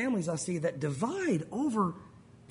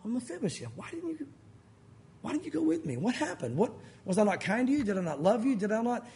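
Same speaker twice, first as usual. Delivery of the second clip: much softer, hurt and tender pleading; heart of the Lord; 3 dB quieter than usual. Pretend. David gently asking Mephibosheth why he stayed, tender and soft. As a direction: plead softly like a wounded father. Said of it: "like the heart of the Lord".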